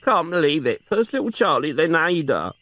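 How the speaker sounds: put-on a lightly tearful old aunt; grieving old aunt. Aunt mourning her nephew and sister, tearful.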